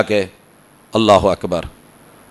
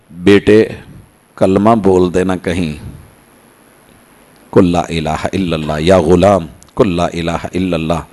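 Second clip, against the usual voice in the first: dying father's plea; 8 semitones lower than usual. Acted. Dying father urges his son. (مرتے باپ کی دھیمی، نیچی التجا)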